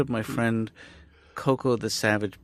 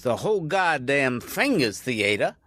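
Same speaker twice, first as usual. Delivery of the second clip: impression of R V Bendrat; 4 semitones higher, slower than usual. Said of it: "impression of R V Bendrat".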